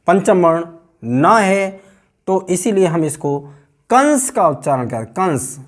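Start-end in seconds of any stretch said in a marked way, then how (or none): 3.9-5.6 "कंस" sounded as kans, the anusvara as n; dental n pronunciation. Shown as a demonstration. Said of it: "ना का उच्चारण आ रहा है". ("कंस" में न की ध्वनि)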